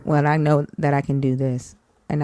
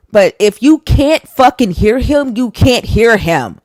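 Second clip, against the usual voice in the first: exasperated shout; 7 semitones higher, 6 dB louder than usual. Real, not acted. Exasperated rant at liars.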